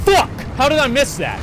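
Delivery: high, loud outburst; exasperated yell. Real, not acted. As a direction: shout it in disbelief at the miss. Gamer missing a shot.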